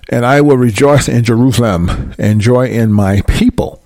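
solemn preacher reading scripture aloud. Acted. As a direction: read the verse with weight and care. Rereads the verse.

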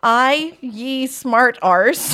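slow, deliberate put-on Scottish; slow Scottish attempt. Reader retries the stranger's line for co-host, slow Scottish attempt. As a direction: draw it out carefully in a loose Scottish accent. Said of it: "Just read it like a normal human".

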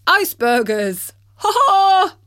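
laughing shout. Acted. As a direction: crow with laughter at the punchline. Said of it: "exclaimed Bertie".

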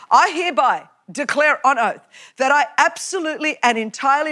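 reciting the oath in a formal, ceremonial tone; mock-solemn recital of the oath. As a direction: read it like a solemn legal pledge. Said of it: "Who speaks like this?".

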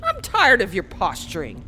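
defiant anger. Acted. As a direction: throw the challenge back. Hero defies villain angrily.

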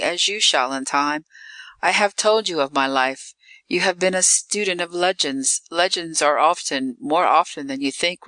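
lightly voiced Eve, composed and lilting; calm vampire woman. Vampire woman instructing her new victim, calm. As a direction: explain it with unruffled, measured assurance. Eve's long explanation to Todd.

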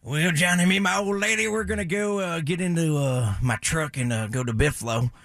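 mock Southern redneck accent. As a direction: answer like a hammed-up redneck caller. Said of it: "I could do a redneck voice".

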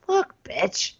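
high-pitched, imitated impatient pleading; mock exasperation. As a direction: act fed up, pitched high. Acted exasperation at the contestant.

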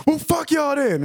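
high indignant yelp; mock woman cursing. Narrator voicing the woman cursing them when refused, high-pitched. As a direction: toss it off as you storm away.

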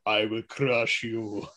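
slow, low, menacing Russian boxer; Ivan Drago. Retold or imitated. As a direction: drag each word out like a cold threat. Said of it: "Ivan Drago from Rocky Four".

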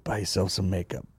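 a low, lightly voiced Jack Nicholson line; quoting the Departed line with a hint of menace; Jack Nicholson impression. Comedian quoting a movie line to his co-host, a light Nicholson voice. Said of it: "That's my Jack Nicholson impression".

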